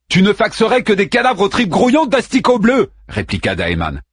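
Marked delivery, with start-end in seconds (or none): 0.1-2.9 urgent loud retort. A narrator's reading. Daeman urgently argues.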